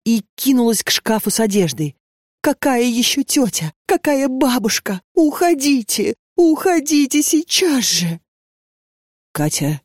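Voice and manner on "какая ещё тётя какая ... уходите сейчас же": higher and higher, frantic demand to leave; frantic cry. A narrator's reading. Terrified girl orders the strange women out, rising and frantic. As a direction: drive them out in panic.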